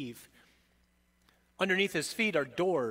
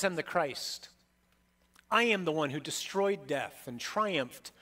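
preaching as Christ. Acted. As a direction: build a litany of titles, each hammered. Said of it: "he says".

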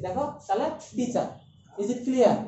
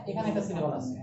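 lower repeat; 3 semitones lower, 3 dB quieter than usual. Shown as a demonstration.

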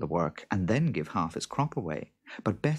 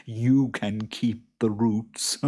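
slow, higher creature voice; chuckling boggart; 4 semitones higher, 4 dB louder, slower than usual. A narrator's reading. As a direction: choose slyly with drawn-out relish. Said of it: "chuckled the boggart".

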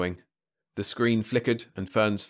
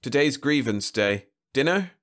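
higher, light female voice; lightly voiced woman; 6 semitones higher, 3 dB louder than usual. A narrator's reading. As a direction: sing it out like a breezy girlfriend. Fern voiced by male narrator.

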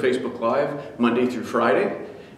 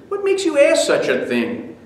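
sharp, much higher angry question; angry father; 13 semitones higher, 4 dB louder than usual. Acted. Irritated father rebuking his son, angry. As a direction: snap back at the nosy kid. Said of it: "the man replied angrily".

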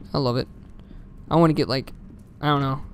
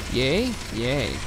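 ordinary talk, nothing marked

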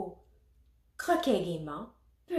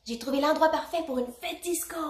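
higher, lively storybook bear; excited announcement; 6 semitones higher, 4 dB louder than usual. A narrator's reading. Teddy to the toys about disco, excited. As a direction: share the great find.

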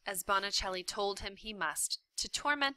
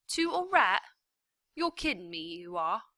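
incredulous prisoner; 2 semitones higher, 6 dB louder than usual. A narrator's reading. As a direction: scoff in disbelief. Prisoner disbelief.

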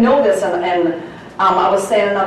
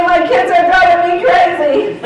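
mock complaint; 10 semitones higher, 7 dB louder than usual. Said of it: "Don't say".

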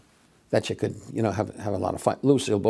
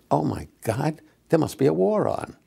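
higher-pitched mock astonishment; mock alarm; 6 semitones higher than usual. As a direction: play up the shock for a joke. Acted roast quip.

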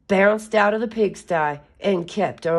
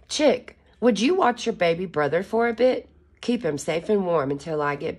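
Mama Hen. Acted. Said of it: "Mama Hen said".

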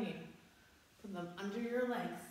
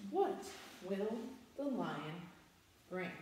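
suspenseful; slower than usual. Acted. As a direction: tease what comes next. Building suspense for lion.

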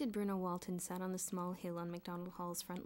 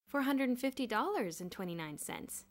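pleased, higher and louder announcement; proudly cheerful, pitched up; happy; 5 semitones higher, 6 dB louder than usual. A narrator's reading. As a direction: announce it happily, voice lifted. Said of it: "Bruno said happily".

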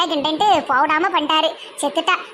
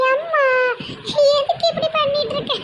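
put-on high giggly girl; endless laughing; 10 semitones higher than usual. Daughter questioning mother before exorcist, laughing. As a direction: protest through a long giggle. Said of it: "வந்ததுலேருந்து சிரிச்சுக்கிட்டே இருக்க".

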